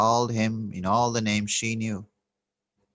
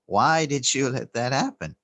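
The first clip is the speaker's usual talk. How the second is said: more emphatic; 4 semitones higher, 3 dB louder than usual. Retold or imitated. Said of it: "So she put more emphasis and said".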